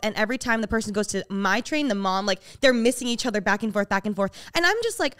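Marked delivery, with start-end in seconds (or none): none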